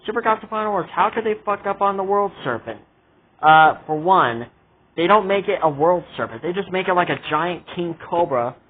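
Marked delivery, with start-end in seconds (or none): 0.0-2.8 high, fast mocking fan voice; imitating viewers. Vlogger mimicking fans who object, high and fast. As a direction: rattle it off like a nitpicking viewer. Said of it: "I know what you guys are gonna say".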